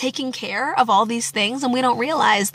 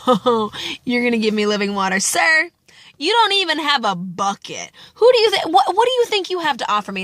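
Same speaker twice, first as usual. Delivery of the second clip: mocking disbelief. Woman mocks Jesus's offer.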